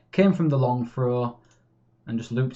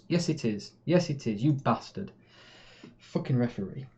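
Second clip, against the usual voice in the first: annoyed; 3 dB quieter than usual. Real, not acted. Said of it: "I'm getting annoyed".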